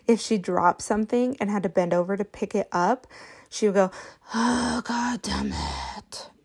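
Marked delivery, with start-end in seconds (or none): 4.3-6.3 put-on slow, higher little kid cursing; frustrated toddler. Toddler dropping something, slow frustrated curse. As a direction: drag it out like a fed-up three-year-old. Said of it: "really frustrated".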